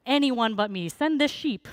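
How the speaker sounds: high, loud mock begging; hammed-up desperation, pitch climbing; desperate Moses. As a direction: plead desperately to get out of it. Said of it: "desperate Moses trying to get out of this".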